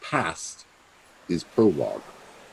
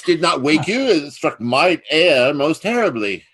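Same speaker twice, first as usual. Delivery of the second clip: higher, louder, rushed lie; hasty excuse; 9 semitones higher, 7 dB louder than usual. Acted. Plotter caught with drawn sword, rushed flustered excuse. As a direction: cover your tracks in a flustered rush.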